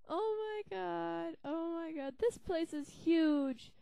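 slow, drawn-out amazement; awed. Real, not acted. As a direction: gape at the size of it. Awed at huge place.

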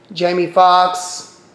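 slow, drawn-out corrected name; careful, stretched-out restatement; deliberate correction. Real, not acted. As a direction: say the name slowly to get it right. Corrects his slip on the name.

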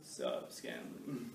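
slow, drawn-out guy greeting; slow dude greeting. Retold or imitated. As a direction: stretch it out like a lazy dude. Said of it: "no dude in here come here and go".

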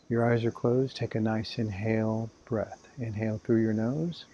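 unhurried guiding voice with long pauses; guided meditation. Acted. Meditation teacher guiding listeners to inhale and exhale, calm guided meditation. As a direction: lead them calmly through each breath, leaving room between phrases.

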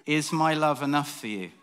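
God's voice chuckling, fond; laughing God. Acted. God laughs off Dave's fishing for words of knowledge. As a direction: tease him through a laugh.

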